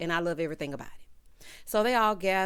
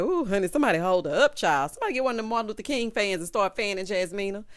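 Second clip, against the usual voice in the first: laughing alarm; 5 dB louder, faster than usual. Retold or imitated. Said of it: "I was like".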